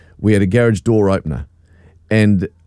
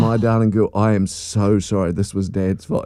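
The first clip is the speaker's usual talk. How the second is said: tender apology; 4 dB quieter than usual. Retold or imitated. Father apologising to crying daughter.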